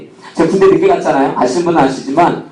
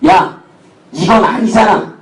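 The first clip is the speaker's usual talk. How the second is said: stretched-out, exasperated mock reproach; lightly voiced officer objecting in disbelief; imitated disapproving commander; 2 semitones higher, slower than usual. Company commander to platoon leader about the recruit, exasperated.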